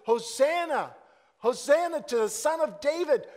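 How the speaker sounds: loud, high acclaim of a king; crowd shouting. Retold or imitated. Preacher voicing the crowd hailing Jesus, loud shout. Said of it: "And they shouted out".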